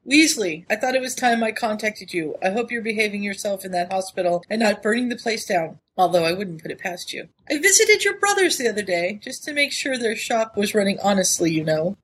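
reading a letter aloud, lightly voiced. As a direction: read it like a teasing old friend. Reads the letter in a voice.

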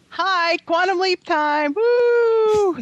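high, slow, squeaky mock-bewildered voice; hamming up a time traveller's confusion; playful high-pitched bewilderment; mock Quantum Leap entrance.

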